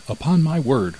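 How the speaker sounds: a touch of amazement, voice lifting; astonished cry. A narrator's reading. Miller finds the peasant's raven is right, mild astonished cry. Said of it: "cried the miller".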